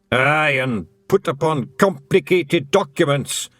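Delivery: high Scots little man, cheerfully frank; a wee Scottish thief owning up; Feegle voice. A narrator's reading. Feegle admits stealing to Tiffany, high and cheerful.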